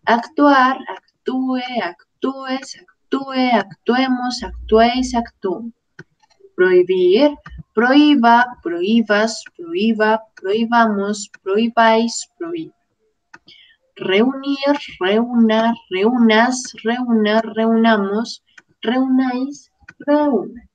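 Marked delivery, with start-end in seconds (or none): 0.9-3.5 "actúe" with the ú stressed as its own syllable; acento en la U. Shown as a demonstration. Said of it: "o en la O en singular". 7.7-10.2 "prohíba" with the í split from the o and stressed; acento en la I. Shown as a demonstration. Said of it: "verbos como prohibir o reunir llevan tilde en la I". 15.0-17.4 "reúna" with the ú split from the e and stressed; acento en la U. Shown as a demonstration. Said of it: "prohibir o reunir llevan tilde".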